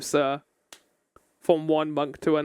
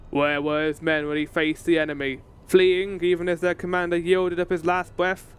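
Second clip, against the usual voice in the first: Gaius voice. Acted. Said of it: "I enjoy doing Gaius' voice".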